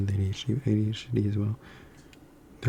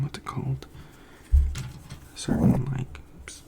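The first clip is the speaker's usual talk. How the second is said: unvoiced whisper while searching for a word. Real, not acted. Vlogger whispers while hunting for a word. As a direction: whisper it to herself.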